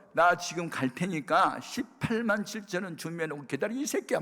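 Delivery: a touch of angry bluster, rising at the end; retold angry threat. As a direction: imitate an irate parent threatening. Mother threatens pastor by phone.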